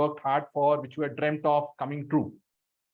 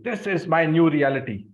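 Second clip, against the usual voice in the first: "This is my new reality" declared louder; loud, firm affirmation; loudly; 3 semitones higher, 4 dB louder than usual. Shown as a demonstration. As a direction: proclaim it out loud to the room.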